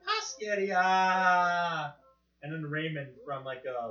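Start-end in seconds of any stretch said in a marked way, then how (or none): 0.1-1.9 mimicking cartoon host. Mimicking cartoon line, slow.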